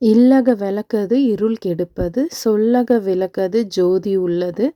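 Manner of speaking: slow, measured devotional verse; unhurried prayer verse with drawn-out words; mantra recitation. Shown as a demonstration. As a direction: recite the lamp-lighting mantra slowly, line by line. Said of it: "இந்த மந்திரம் வந்து சொல்லிட்டே".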